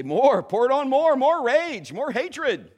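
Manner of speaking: loud, high, goading devil voice; the enemy. Acted. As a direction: egg them on, loud and relentless. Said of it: "The enemy would say".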